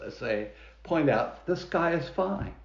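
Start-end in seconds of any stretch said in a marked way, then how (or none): 1.5-2.5 higher, matter-of-fact correction; lightly voiced reassurance from farm animals; pointing out. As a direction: point it out in a higher voice, without alarm. Farm animals correct Henny Penny.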